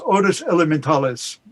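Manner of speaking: lightly attempted Spanish accent; poor Spanish accent. Shown as a demonstration. Poet giving Neruda's original title, in a hesitant Spanish accent. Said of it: "my poor Spanish, uh, accent".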